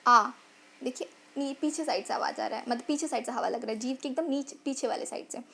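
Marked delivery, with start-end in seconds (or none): 0.1-0.3 a long आ said on its own; vowel demo. Shown as a demonstration. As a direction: show where the air hits. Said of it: "आप उच्चारण कीजिए". (आ का लंबा उच्चारण)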